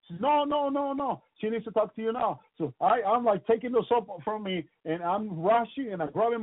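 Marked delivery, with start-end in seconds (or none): 0.2-2.4 high, pressing no no no; wife hurrying him to the phone; urgent insisting. Retold or imitated. Wife at the bathroom door urging him, high and pressing.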